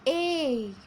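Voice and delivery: "A" stretched into a long "ei". Shown as a demonstration. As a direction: hold the "A" as a long "ei". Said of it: "it will look like this".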